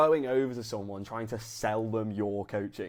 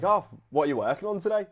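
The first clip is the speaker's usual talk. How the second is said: laid back question; 6 semitones higher, 3 dB louder, faster than usual. Shown as a demonstration. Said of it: "it needs to be laid back".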